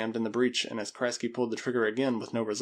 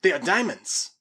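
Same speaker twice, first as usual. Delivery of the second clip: higher, louder excited discovery; amazed; 6 semitones higher, 5 dB louder than usual. Acted. Spaniard discovers the diamonds, loud and amazed. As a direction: announce the find in amazement.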